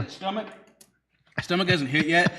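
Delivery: talking with a swollen tongue; words thick from a swollen tongue. Real, not acted. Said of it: "my tongue feels swollen".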